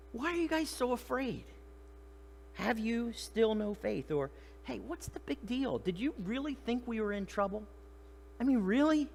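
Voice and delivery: high-pitched, incredulous chiding; mild rebuke. Acted. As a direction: gently scold frightened friends. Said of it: "kind of a bit of rebuke".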